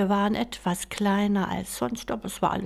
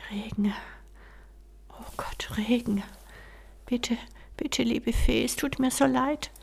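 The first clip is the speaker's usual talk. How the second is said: desperate plea; 5 semitones higher, faster than usual. Acted. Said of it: "flüsterte der Prinz".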